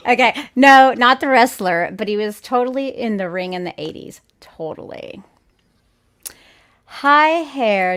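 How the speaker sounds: put-on light Valley Girl voice; totally Valley Girl, like; Valley Girl accent. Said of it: "Valley Girl accent".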